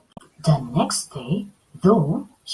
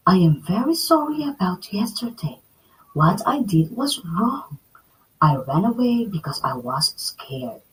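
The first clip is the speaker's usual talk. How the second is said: put-on apologetic girl.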